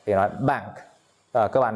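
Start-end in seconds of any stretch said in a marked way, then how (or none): 0.4-0.7 "bank" with a British open "a"; British open-vowel "bank"; British accent. Shown as a demonstration. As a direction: say "bank" British-style, like "bahnk". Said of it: "người nói tiếng Anh theo giọng Anh".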